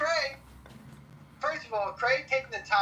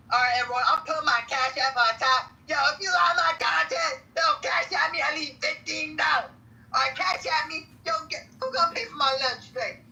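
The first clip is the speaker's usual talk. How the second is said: a mild mock hustler voice, higher and pushier; Cray impression; 4 semitones higher than usual. Mimicking Cray asking listeners for Cash App money, lightly voiced. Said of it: "that's my Cray impression".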